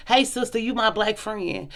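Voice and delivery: mock fake friendliness. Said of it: "you wanna say".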